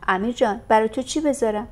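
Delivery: motherly coaxing. Acted. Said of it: "با قهر و مهری مادرانه".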